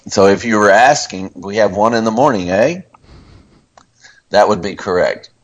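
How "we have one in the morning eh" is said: "eh?" rising as a question at the end; Canadian eh as question. Shown as a demonstration. Host showing the cohost the right Canadian eh, rising. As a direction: finish with "eh?" lifted like a question. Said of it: "A is a question, eh?".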